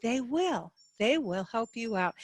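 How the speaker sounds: friendly, helpful reassurance; warm and friendly. Shown as a demonstration. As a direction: sound glad to help them. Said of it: "the kind of tone you're gonna hear is warm and friendly".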